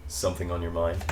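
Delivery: put-on low-key American accent, pitched well below the English elf; American-voiced elf's pillow talk. Elf leaning on the pillow asks Dorian, in the American voice. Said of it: "your English voice or your American voice".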